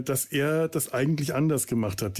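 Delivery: ordinary talk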